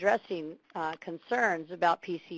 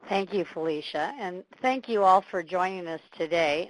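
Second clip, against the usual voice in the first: hoarse from a cold; scratchy voice from a cold; 4 dB louder than usual. Real, not acted. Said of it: "please excuse my scratchy voice".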